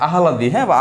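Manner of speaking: আহ্লাদ said as "a-ha-lad"; আহ্লাদ with an extra vowel, "a-ha-lad"; common mispronunciation. Shown as a demonstration. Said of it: "আমরা বলি কি যে".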